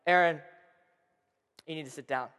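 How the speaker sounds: restrained mock-mom verdict; stern mother. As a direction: lay down the law quietly. Mother sternly grounding the sons.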